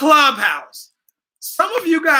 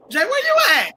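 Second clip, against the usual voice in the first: calling out; 10 semitones higher than usual. Real, not acted. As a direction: shout across to find her. Host calling to guest.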